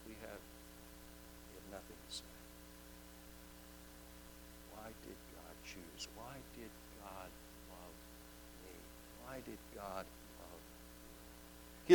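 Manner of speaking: barely above a whisper, awed; a hushed, humbled question to oneself; hushed humility. Acted. Humbled private wondering.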